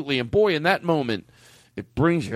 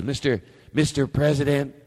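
mock grand proclamation. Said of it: "give me some reverb".

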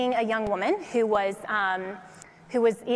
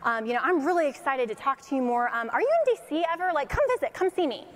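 lightly imitated eager enthusiasm, often higher; President Trump; 4 semitones higher, faster than usual. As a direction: play an excited caller rattling out an invitation. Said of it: "He's like".

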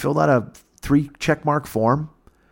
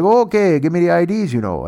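Canadian officer voice; 5 semitones higher, 3 dB louder than usual. Retold or imitated.

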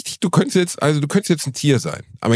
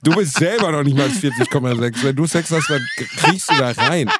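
laughing; 3 semitones higher than usual. Real, not acted. Laughing through teasing joke.

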